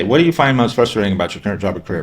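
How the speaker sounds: fast, flat, rattled off; fast, uninterested delivery; flat rushed question. Shown as a demonstration. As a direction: read it like a checklist, quickly. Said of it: "So you don't just say".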